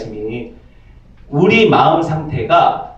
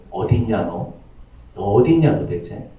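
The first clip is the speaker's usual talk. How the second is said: low, soft calling voice of God searching; 8 semitones lower, 5 dB quieter than usual. Acted. God softly calling to hiding Adam, low searching voice. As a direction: call softly, lower, like God seeking Adam.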